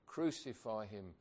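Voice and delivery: slow, weighty crowd cry. Acted. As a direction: give it the mob's outcry, slow and heavy. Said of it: "they cried out the more".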